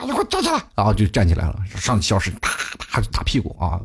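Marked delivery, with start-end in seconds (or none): 0.0-0.6 high, shrill-pitched imitation of teacher ordering you up; 模仿老师厉声喊站起来; mock teacher yell. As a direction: bark it like an angry teacher, pitched way up. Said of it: "说不好啊".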